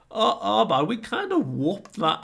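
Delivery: high, loud, blurted-out interruption; blurted mock dismay. Luffy blurting out what they did, mock dismay. Blurted confession in retold scene.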